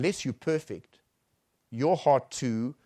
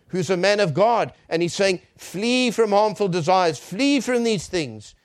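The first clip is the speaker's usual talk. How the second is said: loud, raised-pitch preaching; forceful preaching; 7 semitones higher, 8 dB louder than usual. Real, not acted. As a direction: drive the commands home to a congregation. Preaches the commands at full force.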